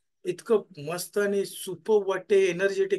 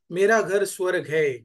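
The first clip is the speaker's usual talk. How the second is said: slow affirmation; 5 dB louder, slower than usual. Shown as a demonstration. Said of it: "सगळ्यांनी बोला".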